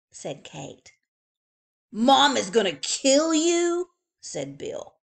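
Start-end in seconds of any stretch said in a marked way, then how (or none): 1.9-3.9 brother's warning. A narrator's reading. Brother warning little sister.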